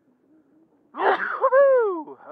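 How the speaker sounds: loud sudden sneeze; a real explosive sneeze; sneezing. Real, not acted. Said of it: "Sorry for the sneeze".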